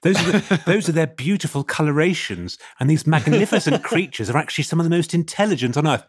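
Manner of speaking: lightly voiced nature documentary narrator; gushing wildlife expert, half laughing. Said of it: "a bloody toad expert emailing in".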